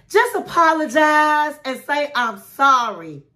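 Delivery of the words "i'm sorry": slow, sincere I'm sorry; mean every word of it; slow and heartfelt; heartfelt apology. Shown as a demonstration. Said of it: "give a heartfelt apology".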